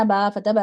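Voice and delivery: final "با" dragged out very long; wrong drawn-out reading. Shown as a demonstration. Teacher imitating how children misread, final vowel dragged out. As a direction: stretch the last vowel of "با فتح با" far too long. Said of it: "مجہول نہیں پڑھنا".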